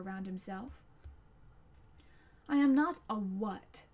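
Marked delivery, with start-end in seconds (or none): 2.5-3.8 louder, lightly voiced monster; a touch of stern creature correcting him; frowning monster. A narrator's reading. Monster corrects Connor, mildly stern and louder. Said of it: "frowned the monster".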